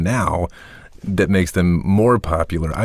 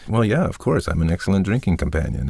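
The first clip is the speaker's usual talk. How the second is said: quick, casual, matter-of-fact; offhand of course; faster than usual. Shown as a demonstration. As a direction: toss it off like it's obvious. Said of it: "or if it's".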